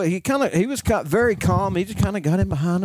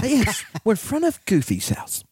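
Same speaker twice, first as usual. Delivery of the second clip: man doing a woman's voice; 5 semitones higher than usual. Retold or imitated. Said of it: "Every time you do that girl's voice".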